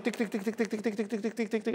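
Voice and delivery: quick, soft tik-tik-tik; rapid ticking. Retold or imitated. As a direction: tick it off softly, like a clock racing. Imitates nations being crushed within seconds. (תקתוק מהיר ושקט)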